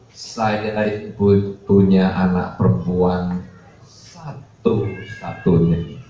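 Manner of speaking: halting, slow mock weeping; imitated tearful parent. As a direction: draw it out as if choking back tears. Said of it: "mewek-mewek".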